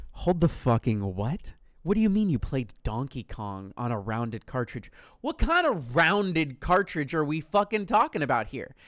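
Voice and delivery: low, loud stunned outrage; friend's weird claim, low loud disbelief; incredulous disbelief. Retold or imitated. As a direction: hold it right there, what?.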